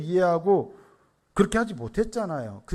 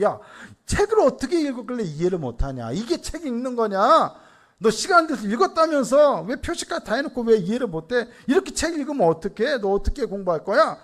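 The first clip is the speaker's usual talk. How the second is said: retold fatherly scolding, a touch higher; mildly irritated dad telling-off; annoyed nagging; 5 semitones higher than usual. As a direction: nag with piled-up exasperated questions. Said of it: "몇 마디 제가 잔소리를 했어요".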